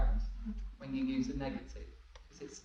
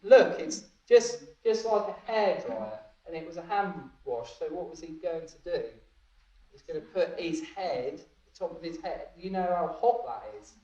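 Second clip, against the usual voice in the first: teacher explaining; 5 dB louder than usual. Retold or imitated. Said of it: "She said".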